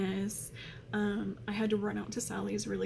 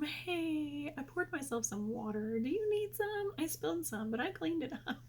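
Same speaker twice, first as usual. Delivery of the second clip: imitating her daughter; 6 semitones higher than usual. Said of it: "She just busts up in the room".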